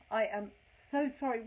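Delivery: escalating retold apology. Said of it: "and I just said".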